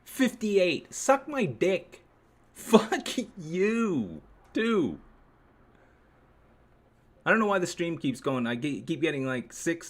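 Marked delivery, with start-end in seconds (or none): none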